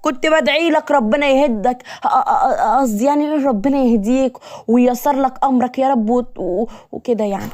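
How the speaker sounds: high, stammering, whiny cover-up; nervous backtracking. Acted. Woman caught cursing her captor, nervously covering up. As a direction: stretch it out high, then stumble and fade.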